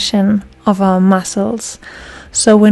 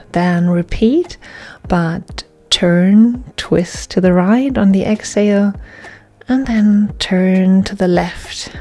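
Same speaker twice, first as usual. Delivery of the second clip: measured, paused yoga-class cueing; guided yoga instruction; 2 semitones lower, 4 dB quieter than usual. Real, not acted. Yoga teacher guiding class through breaths, calm measured instruction. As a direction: cue each breath and movement, leaving space.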